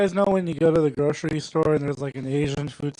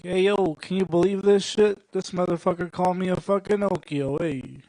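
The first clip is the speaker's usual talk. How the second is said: louder, lightly voiced wiseguy outrage; mock-indignant gangster bit; Joe Pesci impression; 4 semitones higher, 4 dB louder than usual. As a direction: complain like an insulted mob-movie tough guy. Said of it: "pretend I'm Joe Pesci for a second".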